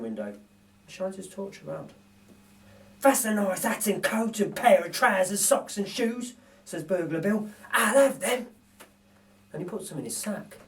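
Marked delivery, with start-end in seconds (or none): 3.0-6.3 lightly voiced gruff burglar, slowed; a hint of a pleased thief eyeing loot; Burglar Bill voice. Narrator voices Bill admiring a toothbrush, lightly voiced. Bill's voice in read story. 7.7-8.5 lightly voiced gruff burglar, slowed; a hint of a pleased thief eyeing loot; Burglar Bill voice. Narrator voices Bill admiring a toothbrush, lightly voiced. Bill's voice in read story.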